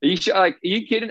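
retold disbelief. Player reacting to coach's call-up news, incredulous. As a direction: jump up in pitch as if you can't believe it.

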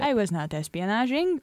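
put-on slow, laughing, clumsy Russian accent; bad Russian accent. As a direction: fake a Russian accent badly. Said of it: "I clearly do not know how to do a Russian accent".

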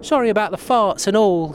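high-pitched talking bulldog; little Archie voice. Acted. Bulldog apologising to Sherlock for snoring, little high dog voice. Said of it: "little Archie voice".

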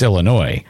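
"Illinois" ending on an open NOY; Illinois with silent S. Shown as a demonstration. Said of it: "Is the S silent?".

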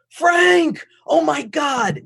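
loud, high excited greeting; excited yell. Retold or imitated. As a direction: shout it with delight. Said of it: "And he starts yelling".

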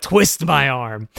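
slow, mock-reluctant giving in; drawn-out put-on reluctance; hammed-up guest letting himself be persuaded.

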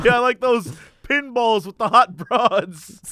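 put-on comic Canadian driver accent. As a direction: savour it in a mock Canadian accent. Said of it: "need you to use that accent".

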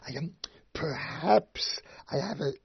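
a hammed-up timid apology; mock meek excuse.

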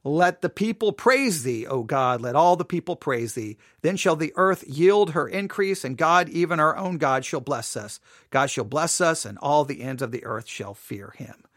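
declamatory Bible reading with lifted pitch; measured, proclaimed verse; scripture reading. Acted. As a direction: read the psalm out to a congregation. Reads scripture aloud.

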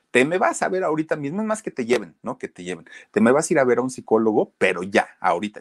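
quick, urgent retold command; pressing him to go at once; insistent order. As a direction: act out a bossy, hurried instruction.

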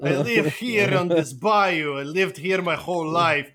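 slow mock Russian-Cajun accent; unconvincing bayou local with a Russian accent. Russian immigrant insisting he's local, comic accent. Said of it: "You can tell by my accent".

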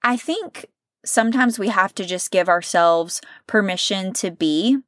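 a real, choked-up whisper as tears come; whispering through real emotion; tearful whisper. Real, not acted. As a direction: hold back tears and barely voice it. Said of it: "I'm gonna try not to cry".

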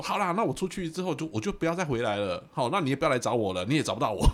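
loud, high furious threat; mother threatening never to come back, furious and loud; angry threat. Retold or imitated. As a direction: storm out in a rage. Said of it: "他就开始生气".

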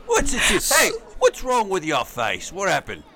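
a hint of Cockney Bert; cheeky Cockney showman; Cockney accent. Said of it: "Bert from Mary Poppins".

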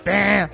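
long held buzzer noise; imitated alarm buzzer. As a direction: mimic a waiting-room alarm going off. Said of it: "tipo um alarmezinho, um sino". (imitação de campainha de alarme)

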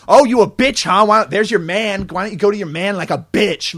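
high, loud mocking shriek of an angry wife; mock screaming. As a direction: shriek it out like a furious wife making a scene.

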